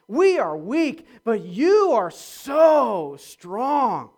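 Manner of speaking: loud, mocking praise; satirical. Shown as a demonstration. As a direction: sneer at their so-called perfection. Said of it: "read it maybe in the tone that Paul was writing".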